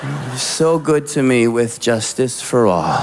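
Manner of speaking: dutiful, rote apology like a pledge; mumbled pledge. Retold or imitated. Married friend apologizing to his wife like a child. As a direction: recite it like the Pledge of Allegiance. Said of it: "he's just like".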